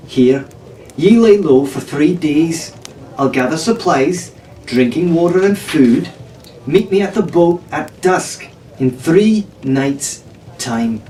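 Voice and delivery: put-on slow, deliberate pirate-girl orders; slow commanding voice. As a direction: spell out the plan carefully. Arabella gives orders.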